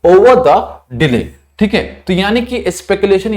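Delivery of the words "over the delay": reading example sentence. Shown as a demonstration. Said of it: "use किया गया था".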